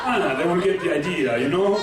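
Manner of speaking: put-on playful Italian accent. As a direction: act the suggestive Italian man. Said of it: "if you're Italian".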